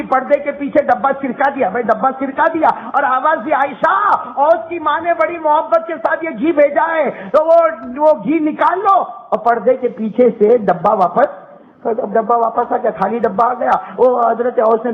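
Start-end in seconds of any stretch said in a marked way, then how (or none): 3.5-9.0 calling to Aisha. Retold or imitated.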